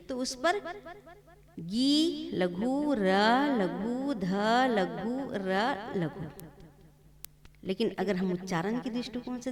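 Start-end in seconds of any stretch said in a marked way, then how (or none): 1.6-6.2 गिरधर split into गि, र, ध, र, each called लघु; teacher spelling गिरधर syllable by syllable; slow syllable count. Shown as a demonstration. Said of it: "वर्ण, की हम गिनती करें".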